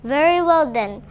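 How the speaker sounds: troll. Acted. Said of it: "said the troll".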